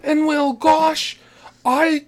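mock Oklahoma housewife, laughing; fake Oklahoma accent. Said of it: "fake Oklahoma accent that she does".

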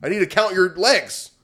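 loud, intent voice to a tiny bug; talking to a bug. Retold or imitated. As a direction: order the bug to hold still.

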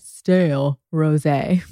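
Wendy Williams rosé. Retold or imitated. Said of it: "I'm thinking of Wendy Williams when I say that".

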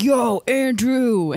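slow, drawn-out hailing call; re-enacting a goofy catcall; imitated stinker voice. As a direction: stretch it out, hollering to someone ahead. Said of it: "so then I dropped down two octaves".

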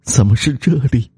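high-pitched, mournful ghostly wail; sobbing wail. Acted. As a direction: cry out in bitter grief. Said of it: "忽然失声痛哭". (失声痛哭，哀怨凄苦)

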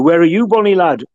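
friendly northern English greeting; imitating a northern mate on the phone; northern accent. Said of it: "in his northern accent".

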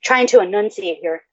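stuffy blocked-nose voice; speaking with a head cold; congested. Real, not acted. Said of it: "I'm so congested".

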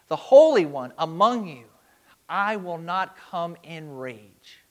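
God's lament read aloud, rising and falling; scripture reading. Acted. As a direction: plead as God, grieving, then resolved. Reads Hosea 11 as God.

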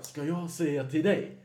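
slow, high, offended repeat back; indignant customer. Retold or imitated. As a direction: throw the question back, affronted and slow.

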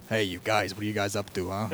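thick put-on Philadelphia accent; casual Philly street greeting. Shown as a demonstration. Host demonstrates an accent, thick Philly. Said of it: "the thick Philly accent".

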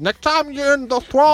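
high, slow comic impression; Bill Cosby. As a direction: stretch it out in a high mock celebrity voice. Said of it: "You just sound like Bill Cosby".

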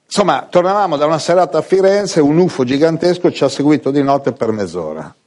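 a hint of the TV hostess telling her UFO tale; Barbara D'Urso. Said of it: "Versione Barbara D'Urso".

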